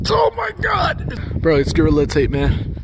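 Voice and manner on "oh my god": very high, drawn-out cry; high shout. Real, not acted.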